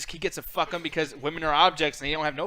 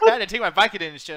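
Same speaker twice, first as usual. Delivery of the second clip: put-on southern accent; 5 dB louder, faster than usual. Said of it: "do the southern accent".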